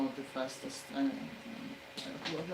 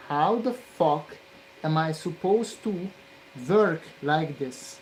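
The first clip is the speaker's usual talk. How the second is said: angry; 5 dB louder than usual. Real, not acted. Frustrated at the work.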